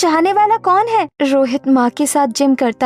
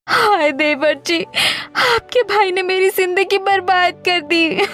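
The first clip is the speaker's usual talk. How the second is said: crying; 3 semitones higher than usual. Acted. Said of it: "ये वक्त रोने का नहीं है".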